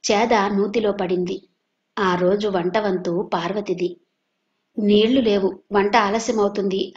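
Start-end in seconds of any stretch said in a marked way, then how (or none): 4.8-6.9 a touch of annoyed complaint on నీళ్లు లేవు; irritated grumble. Acted. Parvati complaining the well bucket fell in, irritated. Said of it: "అని విసుక్కుంది".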